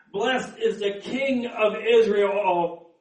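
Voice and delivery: slow, drawn-out proclamation; crowd acclamation. Acted. Crowd's acclamation, later questioned by elders.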